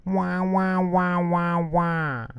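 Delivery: put-on high wailing baby cry. A narrator's reading. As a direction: wail like a baby. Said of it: "The baby looked at the teacher and said".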